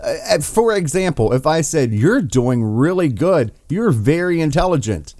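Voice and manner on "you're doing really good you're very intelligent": mock-praise someone you think is dumb; dripping fake praise; sarcastic praise. Shown as a demonstration. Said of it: "that would be sarcasm".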